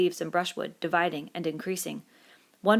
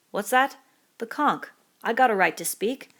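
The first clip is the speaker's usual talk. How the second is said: put-on boy's voice; 5 semitones higher, 4 dB louder than usual. Boy claims right to speak.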